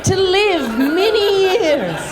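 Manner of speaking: rising, sweet mock-tender voice; mock gentle. Mocking LA folks freeing snakes, sugary and high. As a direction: sing it out like a nature documentary.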